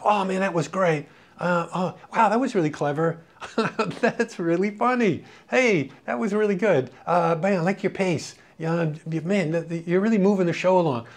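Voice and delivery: mildly enthusiastic retold praise; pump-me-up praise. Program director praising a young jock after an air check, pumped-up praise. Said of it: "just positive, pump me up stuff".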